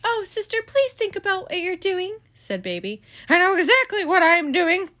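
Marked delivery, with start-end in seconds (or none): 0.0-2.2 put-on pleading Baby. Baby begging her sister not to call, high plea. 3.3-4.9 loud, high, laughing retort; smug Eugenia. Acted. Eugenia brushing off Baby with a smug laugh.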